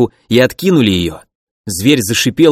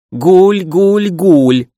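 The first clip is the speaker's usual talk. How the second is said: pigeon cry; 6 semitones higher, much slower than usual. Acted. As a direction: coo out like a monstrous bird. Monster pigeons calling again.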